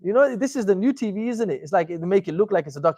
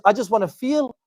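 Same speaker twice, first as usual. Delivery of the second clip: mock emotional seeker; 5 semitones higher than usual. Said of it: "which is".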